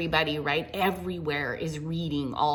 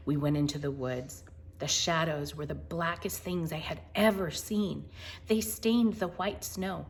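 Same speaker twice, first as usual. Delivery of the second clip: gentle picture-book narration; storybook reading. Acted. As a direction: read it like a bedtime story.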